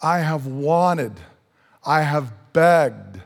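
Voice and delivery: slow, mournful plea; sorrowful pleading. Acted. Jesus pleading with Jerusalem, slow and sorrowful. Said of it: "it's with sorrow".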